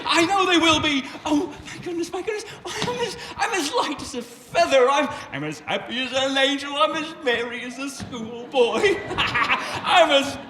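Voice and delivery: laughing through the words; bubbling over like a drunken man; giddy laughter. Acted. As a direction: Scrooge laughing with joy on Christmas morning.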